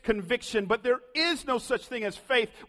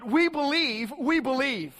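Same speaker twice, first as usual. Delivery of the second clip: eager crowd; 5 semitones higher than usual. Acted. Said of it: "The, the crowd responded".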